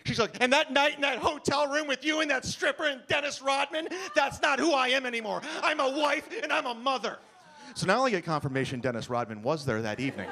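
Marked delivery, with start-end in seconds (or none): 0.4-7.2 higher, indignant mom voice; lightly voiced offended wife; prim woman. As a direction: insist you've changed, clutching pearls. Woman disowning her wild past.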